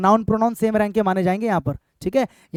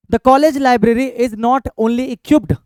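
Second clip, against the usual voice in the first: very slow, word by word; slow board-reading voice; slow dictation; 2 semitones higher, 4 dB louder, much slower than usual. Shown as a demonstration. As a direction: read the next example out slowly. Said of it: "आगे बढ़े भाई".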